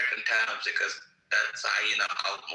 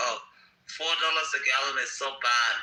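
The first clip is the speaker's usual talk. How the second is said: mock whining; 2 semitones higher than usual. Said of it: "they're just like".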